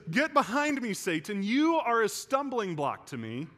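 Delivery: forceful rebuke. Retold or imitated. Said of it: "He says".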